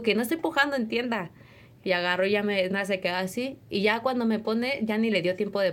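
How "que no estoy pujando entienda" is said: retold anger. Woman in labour to doctor, retold mild anger. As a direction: snap back at the doctor, a touch heated. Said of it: "me enojé".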